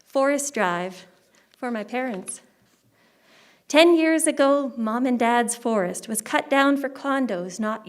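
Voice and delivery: measured poem recital, phrase by phrase; poetry reading. Acted. Poet reading a poem for her parents, measured recital. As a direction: read it as verse, pausing at the line breaks. Reads own poem aloud.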